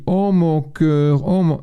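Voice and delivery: slow drawn-out coo, lightly voiced girlfriend; cooing girlfriend imitation. Man lightly mimics girlfriend cooing at the dog, drawn out. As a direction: croon it like she's talking to the dog. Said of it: "si vous entendez ma copine qui dit".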